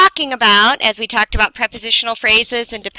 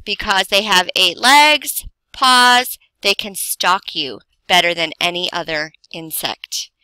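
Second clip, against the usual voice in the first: a clear pause after "Because they have eight legs"; pause after the clause; 2 semitones lower than usual. Shown as a demonstration. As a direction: break after the clause, then go on. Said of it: "you hear the pause".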